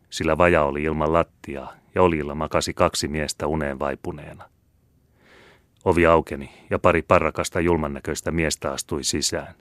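ordinary delivery, nothing marked

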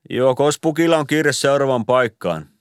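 hint that it's time to go; Ilari's pointed question. A narrator's reading. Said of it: "Ilari kysyi".

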